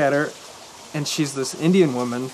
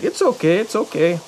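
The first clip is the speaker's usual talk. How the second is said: high, slightly louder soothing it's okay; reassuring cashier; 4 semitones higher, 3 dB louder than usual. Retold or imitated. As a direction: soothe him, pitched up, imitating her. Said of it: "she's like".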